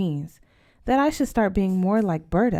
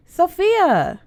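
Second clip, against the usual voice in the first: high, loud shocked protest; scandalized cry; 11 semitones higher, 7 dB louder than usual. A narrator's reading. Berta scandalized by her sister's question, shocked cry. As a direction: cry out her name, mortified.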